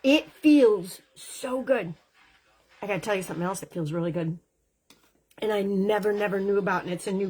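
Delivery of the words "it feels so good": savoring delight. Real, not acted. Savoring the product on skin.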